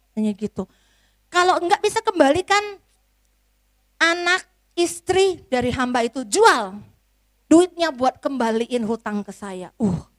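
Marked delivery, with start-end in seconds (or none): 1.3-9.7 louder stern threat; angry master. Acted. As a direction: lay down the threat, still angry. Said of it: "tuannya marah".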